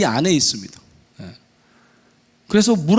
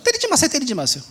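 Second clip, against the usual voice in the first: high, frightened mock plea; involuntary pleading; 10 semitones higher than usual. Frightened girl's words leaking out as she's about to be hit, high pleading. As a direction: let the begging slip out in a thin high voice. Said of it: "입에서 또 자꾸 이제 이렇게 새어나가죠".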